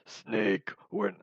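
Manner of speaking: lightly voiced game character, low and loud; a low, forceful first stab at an impression; Gray Fox. Vlogger testing a game impression, low loud voice. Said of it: "like, Gray Fox from Metal Gear Solid".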